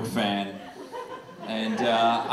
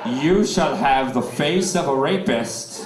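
gypsy curse voice; slower than usual. Retold or imitated. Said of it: "she was like".

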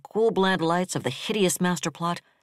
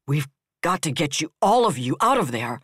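desperate; 4 dB louder than usual. Acted. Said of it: "McAvoy said desperately".

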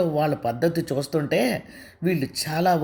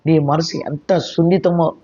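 higher, scolding and indignant; angry; 3 semitones higher than usual. Acted. Neelima scolds Anusha about the other woman, angry. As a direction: lecture her friend hotly. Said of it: "అంది కోపంగా నీలిమ".

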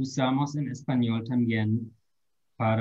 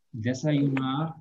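slow repeat; slower than usual. Shown as a demonstration. Teacher repeating the translation to students, slow. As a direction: echo the word gently for the class. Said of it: "la pronunciación".

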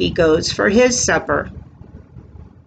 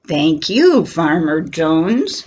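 cow voice; 3 semitones lower than usual. Acted. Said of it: "says the cow".

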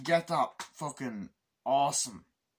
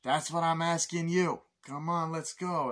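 higher, louder push; imitating the agent; 6 semitones higher, 4 dB louder than usual. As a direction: hurry them along. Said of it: "He's like".

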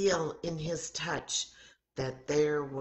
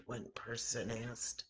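hushed; 8 dB quieter than usual. A narrator's reading. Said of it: "they began to whisper".

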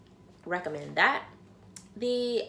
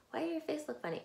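numb mouth from dental anesthetic; numb from the dentist; 9 semitones higher, 5 dB quieter, much faster than usual. Real, not acted. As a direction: talk with a numb face. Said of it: "I just came back from the dentist and, like, my face is numb".

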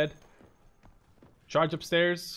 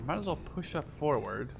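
whisper; 7 dB quieter than usual. Real, not acted. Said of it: "whispered commentary".

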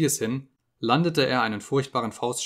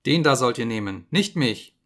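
louder pleading shout; desperate cry; 5 dB louder than usual. Acted. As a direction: point him out in panic. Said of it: "rief er".

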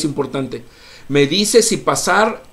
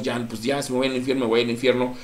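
mock bravado; faster than usual. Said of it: "de forma valiente decimos".

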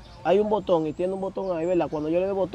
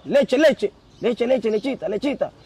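lightly mimicked chanting, raised pitch at first; imitating crazy inmate; 3 semitones higher, slower than usual. New prisoner imitating a crazy inmate's milk chant, lightly acted. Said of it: "un tipo que está".

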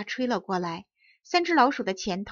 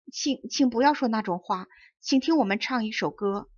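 stammering. Acted. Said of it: "灰老鼠才结结巴巴地说".

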